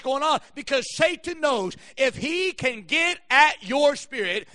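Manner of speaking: emphatic, driving sermon delivery; preaching. Real, not acted. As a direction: preach it hard with punched key words. Preaches at full force.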